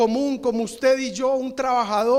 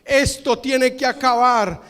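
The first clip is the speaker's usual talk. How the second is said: holy anger. Retold or imitated. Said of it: "tiene una reacción de ira".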